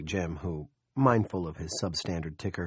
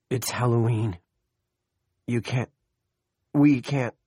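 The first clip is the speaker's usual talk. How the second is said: put-on frightened child; 4 semitones higher, 6 dB louder than usual. A narrator's reading. Injured child raving.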